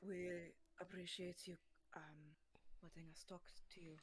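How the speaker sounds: reverent hushed voice. Acted. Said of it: "Ivory is just gonna".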